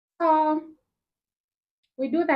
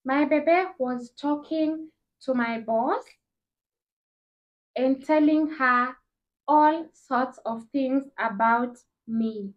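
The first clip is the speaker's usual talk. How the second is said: slow, weighty gossip reveal; slow dramatic reveal; slower than usual. Real, not acted. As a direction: drag it out for drama. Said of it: "Guess what, honeys".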